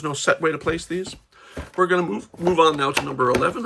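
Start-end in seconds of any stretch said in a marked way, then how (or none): 1.8-3.7 talking through hiccups; hiccuping. Real, not acted. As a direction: speak with hiccups interrupting. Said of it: "I'm hiccuping, sorry".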